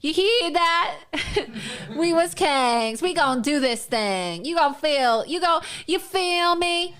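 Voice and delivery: lightly hammed mock slang voice; a hint of mock street slang; mock parody. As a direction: keep up the lampoon, lightly voiced. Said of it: "pretending to be".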